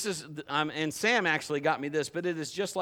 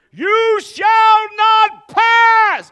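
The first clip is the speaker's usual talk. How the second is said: huge, high, drawn-out wizard shout; Gandalf; 17 dB louder, much slower than usual. Acted. Preacher acting the wizard from the film, booming shout. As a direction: bellow it slowly, every word a barrier. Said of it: "I want that big sword Gandalf carries".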